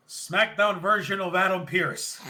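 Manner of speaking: slow, laughing through the name; mock the line while cracking up; laughing mock callout. Recapping McAfee's jab to the stage, laughing. Mocking McAfee calling out Pearce.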